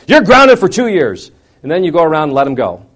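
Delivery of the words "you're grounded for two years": loud, high, drawn-out sentence of punishment; exaggerated angry decree; mock parental yell. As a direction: bellow it slowly like an overreacting parent.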